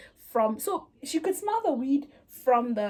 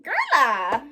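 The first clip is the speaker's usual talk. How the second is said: exclaiming; 2 semitones higher, 7 dB louder than usual. Retold or imitated. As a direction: stretch it into a dramatic cry. Confronting friend next day, exaggerated.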